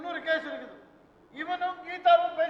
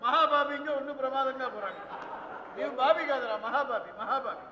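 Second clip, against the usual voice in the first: mocking laughter. Father mocks son's love, laughing.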